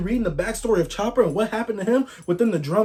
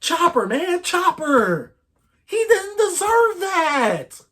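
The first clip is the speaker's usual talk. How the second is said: higher, very slow, choking on the words; half-crying lament; 11 semitones higher, much slower than usual. Real, not acted. To viewers about Chopper's fate, higher and tearful. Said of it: "I'm a little teary-eyed".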